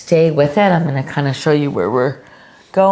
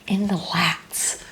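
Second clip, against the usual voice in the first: slow, softer, drawn-out "in the lats"; said oddly; 8 dB quieter, slower than usual. Real, not acted. Yoga teacher drifting into an odd, slow, softer "in the lats". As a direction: let "in the lats" trail out slow and hushed. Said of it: "I don't know why I said it like that".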